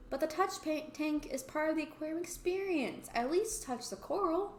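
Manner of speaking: put-on eager boy. Voices boy offering touch tank.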